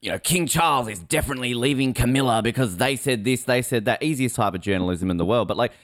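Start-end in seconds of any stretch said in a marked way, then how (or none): 0.2-4.0 a hint of a gossip magazine read; lightly mock a trashy tabloid claim; S1 mocking supermarket magazine gossip, light tabloid voice; tabloid headline voice. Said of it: "where it's like".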